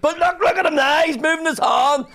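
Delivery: high, loud, excited pleading; hammed-up son insisting his mother look; imitating excited son. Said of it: "he's like".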